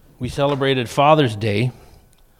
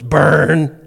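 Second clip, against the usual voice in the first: mocking sister; 2 semitones higher, 5 dB louder than usual. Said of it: "my sister goes".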